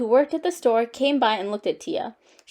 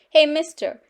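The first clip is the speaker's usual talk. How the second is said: raised, louder challenge; calling out; 5 semitones higher, 5 dB louder than usual. A narrator's reading. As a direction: stop a customer in his tracks. Cashier stops father.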